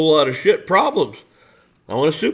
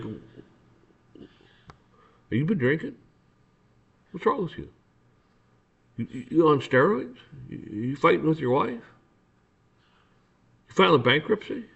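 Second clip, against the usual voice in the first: softer, politely probing questions; nice and polite; 2 semitones higher, 5 dB quieter than usual. Acted. Citizen questioning an officer who got nasty, nice and polite. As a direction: ask gently, as if decently concerned. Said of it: "come off nice and polite and decent".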